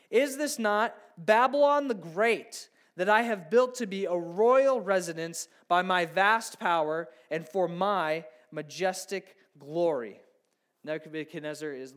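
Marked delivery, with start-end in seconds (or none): 0.1-10.2 boastful king, louder, slowing at the end; proud king. Acted. Preacher reading the king's boast to the congregation, boastful and loud. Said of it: "the king exclaimed".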